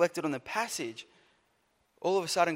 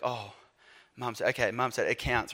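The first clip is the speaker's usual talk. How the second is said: lower, softer, backing down; meek concession; 5 semitones lower, 5 dB quieter than usual. Acted. Sibling backs down on hearing Mum said so, meek concession. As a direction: drop the voice and give in. Giving in once Mum is cited.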